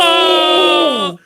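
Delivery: high, loud sudden oh; shocked cry. Real, not acted. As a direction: gasp out in disbelief. Shocked reaction to crying on screen.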